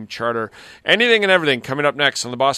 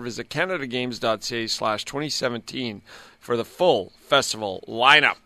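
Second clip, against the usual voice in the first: upbeat radio sponsor read over music. Acted. Host reading a sponsor spot to listeners, upbeat ad read. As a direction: sell the event like a live radio spot.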